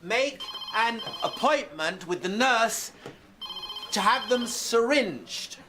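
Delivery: high shout broken into slow chunks. Acted. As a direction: shout each phrase separately for a patient who missed it. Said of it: "sorry, was I shouting".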